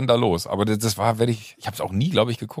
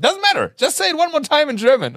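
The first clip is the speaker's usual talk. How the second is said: very high, louder insisting voice; excited director; 4 dB louder than usual. Retold or imitated. Director insisting on the German take, very high and loud. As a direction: squeal it up, eager. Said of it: "Und ich so".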